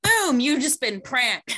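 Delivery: loud, high burst on boom; spring the prank with a big cheer; Ellen prank reveal. Acted. Ellen springing the prank on a shopper, excited shout. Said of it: "playing as Ellen DeGeneres".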